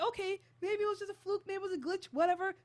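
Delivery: high, loud, hurried brush-off; dismissive rationalizing. Retold or imitated. Acting out a viewer explaining the glitch away, dismissive.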